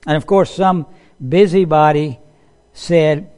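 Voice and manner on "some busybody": ordinary delivery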